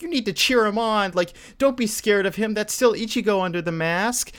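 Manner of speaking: put-on high-pitched little girl cheerleading; Nell. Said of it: "Nell, the little girl's like".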